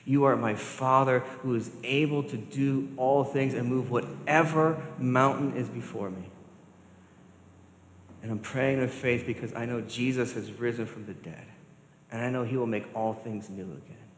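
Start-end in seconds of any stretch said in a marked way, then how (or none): 0.0-11.5 model prayer. Shown as a demonstration.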